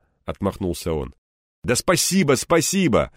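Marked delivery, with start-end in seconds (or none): 1.6-3.1 louder, higher insistent thanks. A narrator's reading. Egor insisting on his thanks, louder. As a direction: press the thanks on him firmly. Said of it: "настойчиво проговорил я ещё раз".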